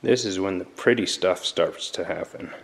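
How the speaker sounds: talking with a nut in his mouth; mouth full. Real, not acted. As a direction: say it around a mouthful. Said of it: "Sorry, I have a nut in my mouth".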